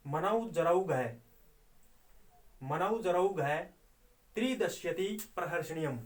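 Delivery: slow metrical chant with a clear break after "मनौ जरौ घय"; recite with the pauses. Shown as a demonstration. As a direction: pause after the third syllable, then carry on straight to the tenth. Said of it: "ये बोला जाएगा". (यति के साथ धीमा छंद पाठ)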